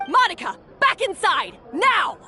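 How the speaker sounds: sharp commanding shout; shouted order. Acted. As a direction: bark the order across the room. Boss orders staff inside.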